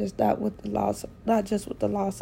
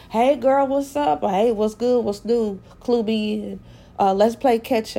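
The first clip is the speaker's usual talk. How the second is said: upbeat friendly greeting; 7 dB louder than usual. Retold or imitated. Friends' texts voiced aloud.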